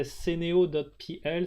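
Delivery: ceneo dot P L in a light French accent. Real, not acted. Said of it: "with my French accent".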